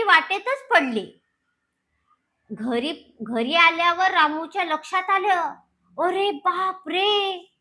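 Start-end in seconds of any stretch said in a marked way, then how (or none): 6.0-7.5 dismayed gasp. Acted. Ramu finds money bag lost.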